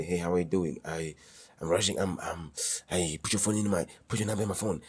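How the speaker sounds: flustered and hurried, tripping over words; nervous guy stumbling through asking a girl's number; rushed, stammering pickup line. Shown as a demonstration. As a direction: blurt it out in a nervous rush. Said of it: "the way they're saying it".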